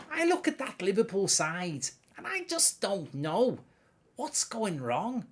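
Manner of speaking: a mock-dismayed singer-star impersonation; Gary Barlow voice. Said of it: "Give us a Gary Barlow impression".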